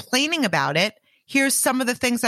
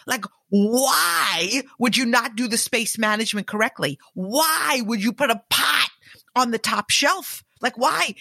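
exasperated complaining. Retold or imitated. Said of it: "to be like".

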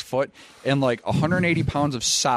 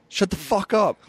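higher-pitched exasperated outburst; retold exasperation; 9 semitones higher than usual. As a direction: cut off a teammate, half in jest. Retold quarrel with teammate before match.

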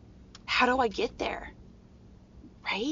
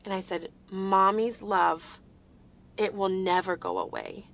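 tender reassurance. Retold or imitated. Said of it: "I looked at him and I said".

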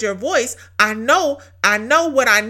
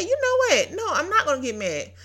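higher, laughing, relieved burst of faith; excited declaration; 5 semitones higher than usual. Retold or imitated. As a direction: toss the problem to God with a laugh. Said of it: "and I said".

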